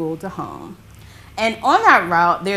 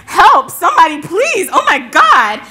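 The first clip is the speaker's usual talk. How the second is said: high, loud panicked pleading; hammed-up desperate shout; mock cry for help; 10 semitones higher, 11 dB louder than usual. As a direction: yell for rescue like the overpowered man. Acting out man crying for help.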